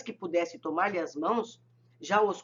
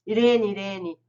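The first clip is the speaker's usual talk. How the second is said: louder, anxious calling of a name; distressed appeal; 5 dB louder than usual. A narrator's reading. Mother appealing to her companion in misfortune, distressed. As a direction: call out to her, mildly distressed. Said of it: "apelou aflita".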